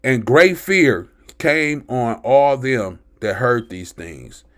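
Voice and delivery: slow, measured scripture reading; calm yourself and space out the words; slowed down, calmer. Real, not acted. Preacher restarts the verse after calming down, slow and deliberate. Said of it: "let me slow down and calm down".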